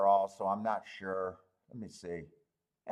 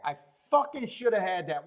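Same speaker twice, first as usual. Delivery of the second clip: frustrated outburst; 3 semitones higher than usual. Real, not acted. Gambler berating himself over the missed bet, angry. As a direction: spit out the fucking, real frustration.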